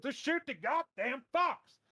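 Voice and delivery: put-on slow, high, loud old-man order; drawn-out hollered command; granddad yelling. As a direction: shout it like a fed-up grandpa. Granddad's order, now escalated.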